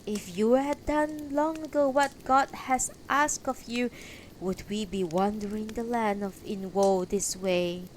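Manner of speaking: lightly voiced complaining woman; another accusing woman. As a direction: reproach the knight, pitched a little up. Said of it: "And another".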